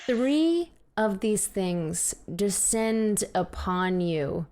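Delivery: slow, ominous scene setting; game master narration. Acted. Game master tells player the creatures attack, slow ominous narration. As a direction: draw it out as the threat closes in.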